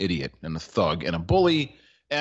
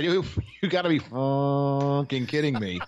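laughing quote; 4 semitones higher than usual. Retold or imitated. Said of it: "he said".

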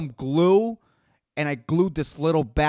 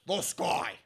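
quiet aside; 10 dB quieter than usual. Acted. Quiet odd voice.

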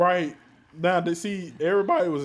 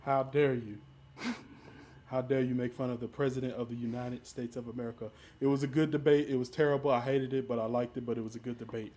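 lightly voiced indignant president; mock-offended politician, a light impersonation; Donald Trump. Scolding hosts for making fun of the President, light Trump impression. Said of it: "Is you doing the Trump impression right now?".

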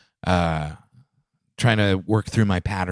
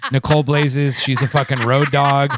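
loud, laughing 'hell yeah' cheer; laughing hype quote; 3 semitones higher, 3 dB louder than usual. Retold or imitated. Cheering while laughing about her stoned friend. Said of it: "I was like".

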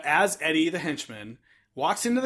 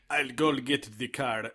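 low mumbled imitation; 6 semitones lower, 9 dB quieter, slower than usual. Practising henchman's voice.

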